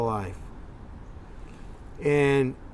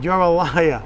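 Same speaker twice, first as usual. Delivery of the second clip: mock swearing; 3 semitones higher, faster than usual. Rep retelling how he scolded the faking caller, angry. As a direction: tell the liar off hard. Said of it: "I was swearing at him".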